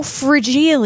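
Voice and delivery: fragile said like frah-JEE-lee; playful mispronunciation. Shown as a demonstration. Vlogger joking about fragile young America, playful mispronunciation. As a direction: stretch fragile into a mock-Italian "fra-jee-lee". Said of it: "and that's fragile, fragile, fragile".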